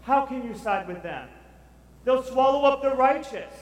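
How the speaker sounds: high, pleading protest to God; Habakkuk's complaint. Retold or imitated. Habakkuk protesting to the Lord, high and pleading. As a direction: plead with the Lord, slowly and urgently. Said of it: "And Habakkuk is like".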